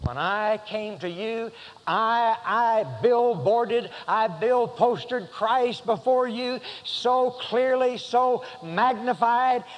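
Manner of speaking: a hint of Paul pleading his case; voicing Paul. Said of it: "And Paul is saying".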